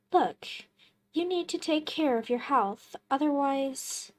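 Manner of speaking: bright, quick, eager stranger voice; a pushy visitor, quick and chipper; cheerful stranger. Acted. Visitor role in game.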